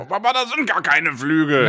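a hint of a demanding teenager; whiny teenage son. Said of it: "Ich bin Glaurung".

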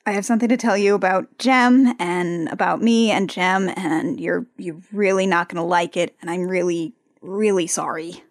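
hushed, apologetic and hesitant; soft, guilty voice; quiet confession. Retold or imitated. Jerica confesses to Rio.

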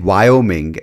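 blurted answer. Retold or imitated. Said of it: "I just blanked out".

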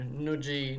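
Nuji as a botched two-syllable "NOO-jee"; butchered pronunciation. Shown as a demonstration. Co-host joking about butchering the name, Nuji mispronounced. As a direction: mangle the surname into Nuji, rhyming with "bougie". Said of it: "I'm gonna butcher his name".

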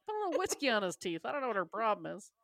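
fast, dismissive mock grandma; old grandmother. Host voicing an old grandmother brushing off worries, fast. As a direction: rattle it off like a brusque grandmother. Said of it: "old grandmother would be like".

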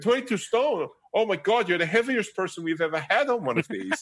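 high, mock-horrified woman's voice; shocked instructor woman. Instructor shocked by his weight, hammed-up high woman's voice. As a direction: ham up her shock, way up high. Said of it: "And she went".

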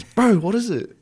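high, loud imitation of an excited mate; retold urgent call. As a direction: call out, demanding to know. Retold friend calling out excitedly.

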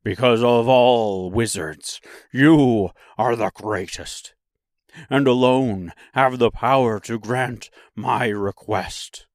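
lightly voiced lion, emphatic; a hint of a big beast's voice; cowardly Lion. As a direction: plead your case as the lion. The Lion answers Oz.

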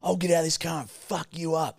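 high, strained mock threat; threatening older bloke. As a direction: act out an angry driver's threat. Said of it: "he was a bit of an older bloke".

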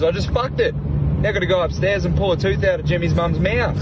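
lightly voiced drunk Freddie; Freddie's punchline. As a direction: deliver the twist brightly pitched.

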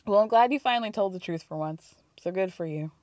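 flat, deadpan tone; flat delivery. Retold or imitated. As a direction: say it flat and unimpressed. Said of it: "Monica says flatly".

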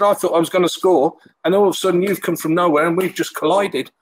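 high amateur Scouse imitation; retold in a mock Scouse accent; Tony Warner, rough Scouse. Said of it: "This Scouse accent. I'm not good with Scouse accents".

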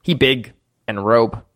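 low, halting broken speech; low-voiced simple little creature. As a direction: say it low, word by word. Game master voices Grook's broken speech.

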